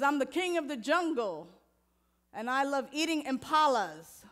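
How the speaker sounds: lightly voiced lion, bragging; proud lion. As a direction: puff up like the king of the jungle. Lion boasts in joke.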